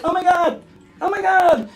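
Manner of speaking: put-on high-pitched baby turtle panic; mock panic. Baby turtle waddling past birds, in mock panic. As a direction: playfully voice a frantic little turtle. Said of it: "and you're like".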